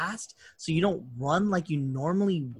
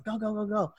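mock urging; 6 semitones higher, 3 dB quieter than usual. Retelling a man sending a stuck car off, mock urging. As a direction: imitate someone hurrying a driver, pitched up.

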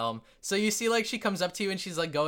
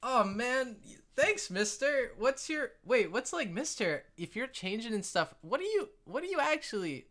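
put-on little girl voice; 5 semitones higher, 3 dB quieter than usual. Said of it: "and she's like".

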